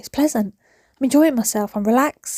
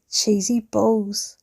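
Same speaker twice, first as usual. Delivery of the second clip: "Cheesy balls" drawn out slow and soft; slow savoured cheesy balls; 4 dB quieter, much slower than usual. Real, not acted.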